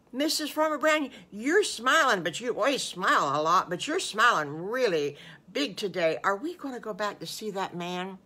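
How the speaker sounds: put-on eager little wolf child, bursting with questions; excited Little Bad Wolf. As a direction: start high and loud, like an excited little one. Voices excited child wolf in story.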